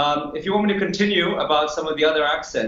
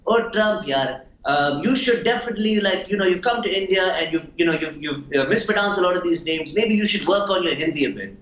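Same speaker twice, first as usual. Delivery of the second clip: Saif; 2 semitones higher than usual. Acted. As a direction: pitch it up, casually advising with filler words. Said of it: "imagine Saif would say something like".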